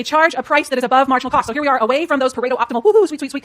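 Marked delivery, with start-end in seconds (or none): 2.8-3.4 mock cheer. Mock cheer over market failure.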